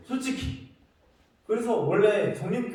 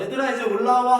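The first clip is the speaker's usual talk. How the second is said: a mock call up to the kids, louder; 6 semitones higher, 7 dB louder than usual. Pastor calling the kids in from the lobby, loud call. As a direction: call the kids back inside.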